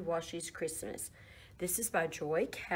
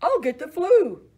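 whiny cow; 9 semitones higher, 10 dB louder than usual. Acted. Cow complains, voiced in story.

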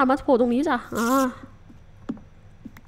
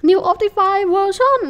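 announcer read; 7 semitones higher, 5 dB louder, much slower than usual. Pretend. Reading mod title in game.

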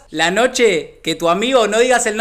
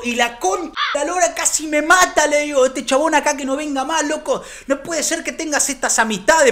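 higher, mock stern father scolding mom; higher mock fatherly telling-off; 5 semitones higher than usual. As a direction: tell off your mother like a strict dad. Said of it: "parecía yo, el padre, cagando a pedo".

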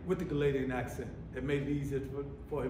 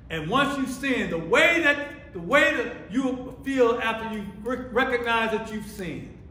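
raised, urgent sermon voice; emphatic preacher, higher and insistent; fervent preaching; 6 semitones higher, 4 dB louder than usual. Real, not acted. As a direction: press the question on the congregation.

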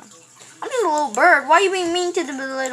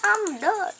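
high squeal; 11 semitones higher than usual. Pretend. Squealing as game animal.

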